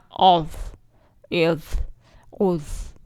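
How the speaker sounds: اوف voiced heavy and round; heavy daad drill. Shown as a demonstration. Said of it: "چند الفاظ میں practice کرتے ہیں". (ضاد کی موٹی آواز کی مشق)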